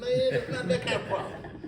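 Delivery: high and loud, laughing through the words; laughing protest. Retold or imitated. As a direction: laugh as you insist he's got it wrong.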